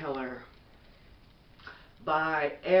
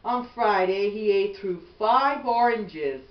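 gentle, even bedtime storybook read; reading to children; 3 dB louder than usual. Acted. Mother reading a bedtime book to her son, gentle storybook voice.

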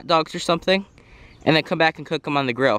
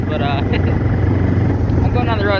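talking around a lollipop; words slurred around a sucker in mouth; mouth full; 2 semitones higher, 5 dB louder than usual. Real, not acted. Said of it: "It looks really weird with this in my mouth talking".

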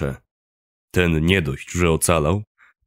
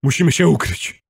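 high-pitched urgent call; urgent shout; 7 semitones higher than usual. A narrator's reading. Kuba dragging narrator to cover, urgent shout. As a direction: press him to hurry into hiding. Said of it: "krzyczał, nie zamierzając odpuścić".

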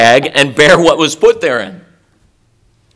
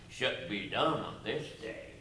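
mock Pharisee; 3 semitones lower, 22 dB quieter than usual. Mocking Pharisees' objection.

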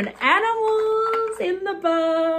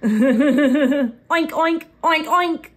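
pig oink; slower than usual. Shown as a demonstration. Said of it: "That's the sound a pig makes".

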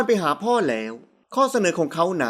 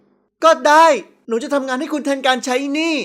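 higher-pitched, slow declaration; girl's firm announcement, slowly; determined young daughter; 5 semitones higher than usual. Acted. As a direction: agree like a defiant girl, drawn out. Girl stands up and agrees.

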